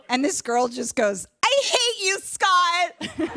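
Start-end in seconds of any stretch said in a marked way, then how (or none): 1.4-3.3 high, bitter outburst; imitating a fed-up classmate's outburst; mock angry outburst. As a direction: spit it at Scott. Girl yelling in class.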